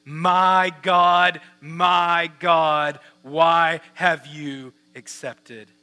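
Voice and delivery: loud, slow, drawn-out cry; forceful pulpit call, easing off at the end; acted crying out. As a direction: cry out to God, stretching each word. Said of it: "that we might cry out".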